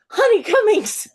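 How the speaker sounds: high, loud, thrilled greeting; excited fan squeal. Retold or imitated. Fans greet their favorite author from front row, excited shout. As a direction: call out like a fan spotting an idol.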